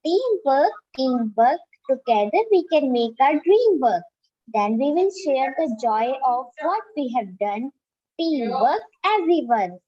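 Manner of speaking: measured, singsong recital with rise and fall; poem recitation. Shown as a demonstration. Student reciting a poem for an online class, singsong recitation. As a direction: recite it line by line, pausing between phrases. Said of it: "So let's start".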